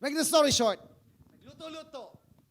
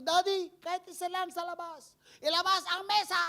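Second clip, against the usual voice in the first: pleading excitedly; 9 semitones higher, 4 dB louder than usual. Retold or imitated. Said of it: "Sabi ko".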